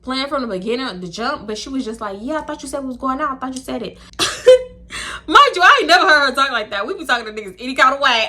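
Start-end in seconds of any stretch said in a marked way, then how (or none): 2.2-4.0 quick, soft, higher-pitched cutesy imitation; mock cutesy murmur, softly pleading. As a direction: mimic a friend playing sweet. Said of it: "she put on this little soft, cutesy voice".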